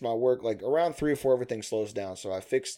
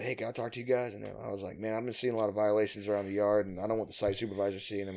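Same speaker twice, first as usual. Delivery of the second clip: hushed, softer confiding voice; quiet confiding; 3 semitones lower, 8 dB quieter than usual. Retold or imitated. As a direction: say it low like a secret. Quietly approaching foremen.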